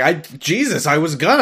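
imitating someone just given a scare; mock startled stammer. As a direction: sputter it, hammed-up and startled. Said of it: "Rory's like".

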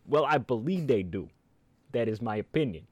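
put-on Italian accent. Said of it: "the speaker in an Italian voice".

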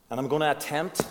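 "attempt" punched out, then left hanging; stress on attempt. Real, not acted. Preacher telling the church his plan, with strong stress on "attempt". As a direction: lean firmly on "attempt". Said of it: "with a strong emphasis on attempt".

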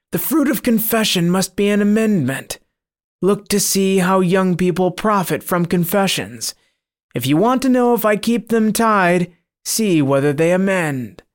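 a demon taunting the priest; sly monster. Acted. Monster speaks before rampage.

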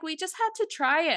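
high, mocking imitation of Raquel. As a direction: toss it off in a high, smug mock voice. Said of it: "But it's like".

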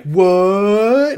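rising shocked what; surprised what. Retold or imitated. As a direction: play it stunned. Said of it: "she's like".

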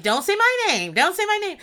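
mocking Natalie. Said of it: "you over here, like".

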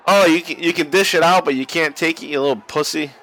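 mocking jab that eases off toward the end; mock taunt. Commentator to the begging wrestler, mock taunting.

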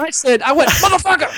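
high-pitched tough-guy exclamation; Mister T. Retold or imitated. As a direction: throw out a hammed-up startled curse. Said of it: "Mister T".

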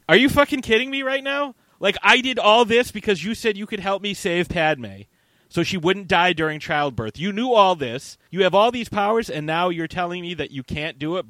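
loud, high mock outrage; acted indignant tirade; outraged disbelief. Imagined outrage of Anakin at being deceived.

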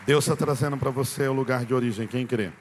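loud, full-force proclamation; preaching proclamation. Real, not acted. Preacher proclaims God's promise to the church, loud.

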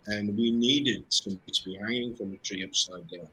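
ordinary talk, nothing marked

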